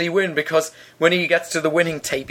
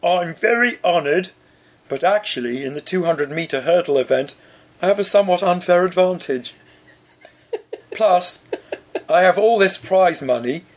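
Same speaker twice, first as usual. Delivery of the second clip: ghost voice. Acted. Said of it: "I'll read it in a ghost's voice".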